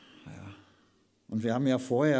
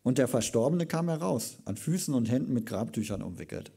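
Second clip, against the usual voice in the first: dramatic scripture reading; 4 dB louder than usual. Acted. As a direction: proclaim the Bible passage to the congregation. Preacher reads scripture aloud.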